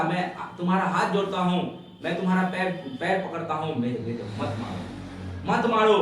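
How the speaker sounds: mother's retold plea, dropping then bursting out; acted pleading. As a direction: beg for the son's life, in imitation. माँ बेटे की जान माँगती. (गिड़गिड़ाती माँ का अभिनय)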